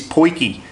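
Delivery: "poikie" said with an OY sound, then kee; proper pronunciation. Shown as a demonstration. Showing viewers how Safa mates say it, properly pronounced "poikie". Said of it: "the proper pronunciation of it".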